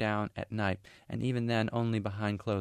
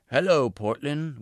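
loud, high, drawn-out holler; playful yell; 6 semitones higher, 7 dB louder than usual. A narrator's reading. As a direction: call it out slowly, like greeting a faraway city. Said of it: "alternately yelling".

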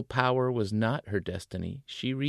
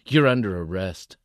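stern; 8 dB louder than usual. Acted. Cop's mock arrest.

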